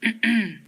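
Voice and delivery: short throat clearing. Real, not acted. Mid word list, clears throat. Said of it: "clears throat".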